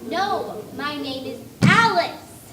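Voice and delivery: slow, loud insistence on her name; loud and slow, insisting on the name; yelling. Acted. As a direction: yell her name at him. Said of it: "There's no need to yell".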